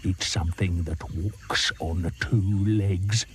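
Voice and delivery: slow, sly croc; sly hint. Acted. Crocodile hints to the hippo, slow and sly. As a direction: tease it out slowly.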